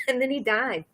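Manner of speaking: pained laughter while speaking; laughing through pain. Real, not acted. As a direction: laugh breaking into the words. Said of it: "I'm laughing because it's a lot of pain".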